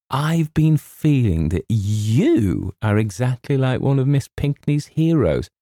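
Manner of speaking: high, slowly building rapture; girlish admiration. A narrator's reading. Girl likens James to a hero, adoringly. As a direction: declare it with high-pitched adoration.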